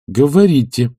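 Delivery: imperious command to speak. A narrator's reading. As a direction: demand it firmly. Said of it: "сказала она повелительно".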